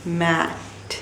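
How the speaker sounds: मैट stretched, with a long open vowel before the t; मैट slow and soft, as one beat; slow demonstration. Shown as a demonstration. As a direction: draw out मैट so the single mouth opening shows. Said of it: "कितनी दफ़ा मुंह खुला है".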